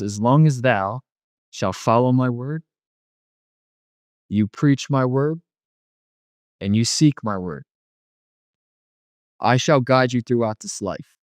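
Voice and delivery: slow, measured, solemn pronouncement; God the Father. Retold or imitated. The Father instructing his son from the throne, slow and solemn. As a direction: speak as a father laying down a promise, drawn out. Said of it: "And he says".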